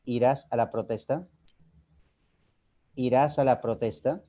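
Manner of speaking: "¿Irás a la protesta?" rising at the end; tono ascendente. Shown as a demonstration. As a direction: ask "¿Irás a la protesta?" as a yes-no question, lifting the final word. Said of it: "es un tono ascendente". ("¿Irás a la protesta?" con entonación ascendente al final)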